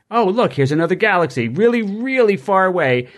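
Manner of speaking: silly high puppet voice; goofy muffled sock puppet. Retold or imitated. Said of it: "Bob's puppet voice".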